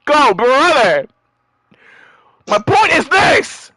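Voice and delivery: slow, high courtroom declaration; dramatic lawyer. Acted. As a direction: proclaim it like a showboating lawyer.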